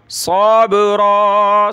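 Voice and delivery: सब्रा with the ba bounced and echoed, slow; slow सब्रा, echoing ba; qalqala on ba. Shown as a demonstration. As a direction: stop on सब्रा and let the ba bounce. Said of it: "ये बा पर कलकला करना है".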